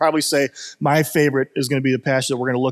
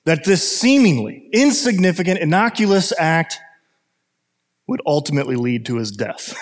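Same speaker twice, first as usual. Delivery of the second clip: movie narrator. Acted. Preacher voicing the narrator over Harold's morning, measured narrator voice. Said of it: "the narrator's voice says".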